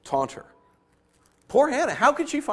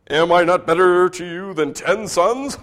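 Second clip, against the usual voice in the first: lightly voiced, self-satisfied husband; a touch of a smug husband; clueless husband; 5 dB louder than usual. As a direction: ask it as if he were the prize. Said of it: "Her husband Elkanah asked".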